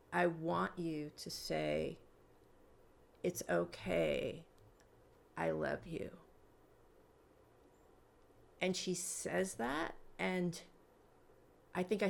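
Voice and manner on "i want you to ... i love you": slow, measured facilitator's voice; gentle solemn instruction. Retold or imitated. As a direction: guide tenderly, with long pauses.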